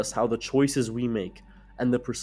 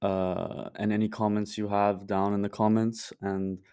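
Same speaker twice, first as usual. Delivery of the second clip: raspy sick voice. Real, not acted. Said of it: "apologize for my raspy, uh, sick voice".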